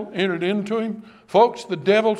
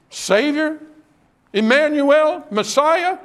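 fervent praise; 6 semitones higher, slower than usual. Retold or imitated. Disciples hailing Jesus, lifted high and fervent.

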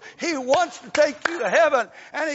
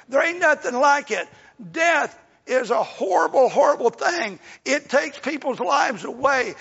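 loud preaching; 4 dB louder than usual. Real, not acted. Preaching about a grieving mother.

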